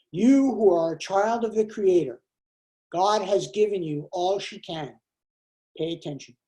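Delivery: a reader voicing a prayer poem to the congregation; poem reading. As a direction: read each image as a prayer. Reads a poem aloud.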